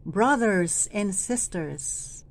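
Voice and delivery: slow call of Brothers and sisters; calling out to them. Shown as a demonstration. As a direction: address the people directly. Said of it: "parang tinatawagan nyo sila".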